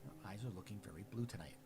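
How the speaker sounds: sincere compliment. Shown as a demonstration. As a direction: say it gently, as praise. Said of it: "It sounded like a statement".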